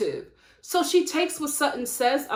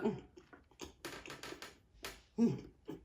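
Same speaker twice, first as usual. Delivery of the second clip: short closed-mouth "mm"s; imitated indifferent eating noise; 4 semitones lower, 17 dB quieter, faster than usual. Host imitating the husband ignoring his crying wife, indifferent mm's. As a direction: mimic an unbothered eater with little grunts. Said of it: "he was just like".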